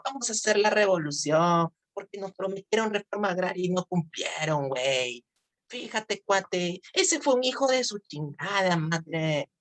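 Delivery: put-on high, drawn northern Mexican accent. Teacher imitates a northern Mexican rebel, northern Mexican accent. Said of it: "cuando dicen así los mexicanos en el norte".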